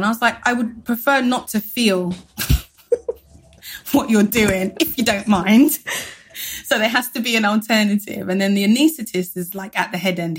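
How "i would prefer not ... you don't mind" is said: mock-polite retort. Sarcastically polite retort, told with laughter.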